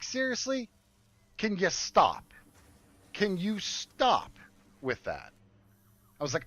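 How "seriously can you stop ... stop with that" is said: exasperated retort. Retold or imitated. Exasperated retort to eye roll.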